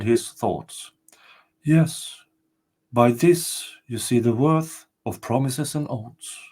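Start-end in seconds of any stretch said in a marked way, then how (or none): 1.6-6.4 castle spirit. Acted. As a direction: announce yourself as the ancient spirit.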